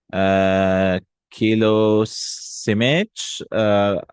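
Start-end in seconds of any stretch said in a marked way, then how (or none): 1.3-3.4 kilo simich drawn out, kilo rising; slow model phrase. Shown as a demonstration. Teacher modelling a kilo of fish slowly. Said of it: "let's try it again".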